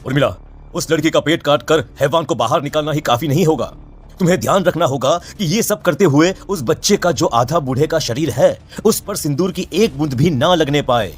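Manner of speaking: urgent call. Acted. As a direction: call her back before she leaves. Priest calls her back urgently. (पीछे से ज़ोर से पुकारती चेतावनी)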